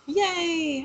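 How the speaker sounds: high, drawn-out little cheer; playful cheer. Pretend. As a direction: cheer sweetly for the ending. Cheers the movie's happy ending.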